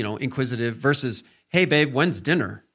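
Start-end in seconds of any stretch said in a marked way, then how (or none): 1.5-2.6 flatter, pressing, impatient question; husband pressing his wife about dinner, mildly demanding. Shown as a demonstration. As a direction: make it sound like he wants it now. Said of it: "Where is it? What's going on? Why aren't you done with this yet?".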